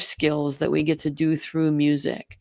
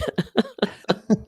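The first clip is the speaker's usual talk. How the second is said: laugh; 6 semitones higher than usual. Real, not acted. Laughs after grumpy remark.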